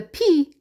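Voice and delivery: "p" as a short voiceless puff; letter P sound. Shown as a demonstration. Teacher answering what P says, short popped "p". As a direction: pop "p" from the lips, no letter name. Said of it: "The P says".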